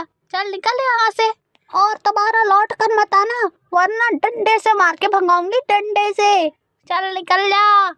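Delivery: put-on protective, threatening old crow; fierce mother-in-law. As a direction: defend the bahu and threaten the neighbour. (धमकाती हुई सास)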